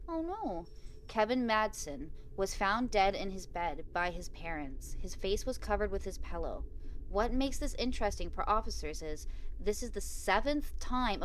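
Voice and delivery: measured read-aloud of a game story; story narration. A narrator's reading. Player reading Bob's condolences aloud, measured story narration. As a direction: read it out evenly, pausing between phrases.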